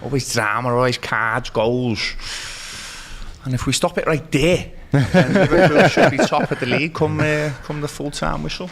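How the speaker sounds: put-on Liverpool Scouse accent. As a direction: speak it like a Liverpool lad, Scouse. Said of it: "He has to speak in a Scouse one".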